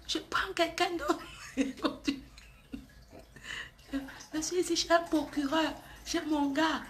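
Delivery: mimicking a friend's faint little voice, half laughing; imitating her small voice. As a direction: quote her as if she can barely get her voice out. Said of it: "avec sa petite voix là".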